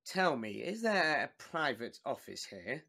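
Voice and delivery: low, soft, confidential question; hushed and discreet; discreet aside. Acted. Discreetly asking after the outburst.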